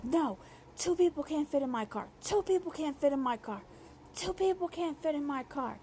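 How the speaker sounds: mock a grown man whining like a toddler; imitating a childish lisping complaint; fake baby voice. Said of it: "a fake lisp, baby voice tone".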